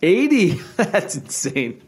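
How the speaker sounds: can't believe that number; incredulous. Real, not acted. Disbelief at the eighty percent guess.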